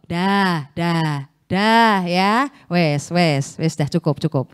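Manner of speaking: low, hushed soothing; gentle restraint. Acted. Holy Spirit checking an angry man, low gentle restraint.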